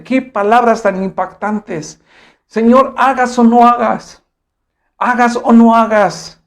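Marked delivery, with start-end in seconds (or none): 2.5-6.4 higher, slow declaration to God; fervent vow. Acted. The young men vow to God they will worship regardless, fervently. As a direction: proclaim it slowly, pitched up, with conviction.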